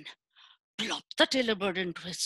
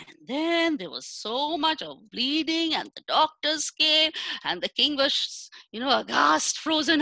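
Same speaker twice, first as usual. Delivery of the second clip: high, loud alarmed telling; breathless high alarm; excited alarm; 7 semitones higher, 5 dB louder than usual. A narrator's reading. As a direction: rush the chaos in a rising voice. Bloody chaos at court.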